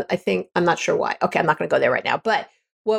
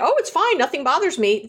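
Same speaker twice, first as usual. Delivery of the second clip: breezy dismissal; 6 semitones higher than usual. Retold or imitated. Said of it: "To, to just be like".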